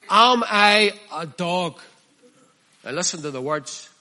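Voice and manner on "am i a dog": a scornful giant's taunt, slowed at the end; the preacher voicing Goliath taunting David, mock scorn. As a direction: sneer it like a mocking giant. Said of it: "Listen to the way he speaks to David".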